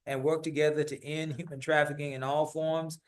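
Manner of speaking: measured, official read of a city proclamation; steady civic reading voice; formal proclamation reading. Acted. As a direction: read it out like a formal decree to the council. Reads the city proclamation aloud.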